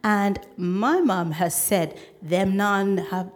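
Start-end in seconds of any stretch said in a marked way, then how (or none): 2.2-3.3 halting try at Mum's Jamaican patois; amateur Jamaican patois; shaky Jamaican patois attempt. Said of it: "My patois is shameful".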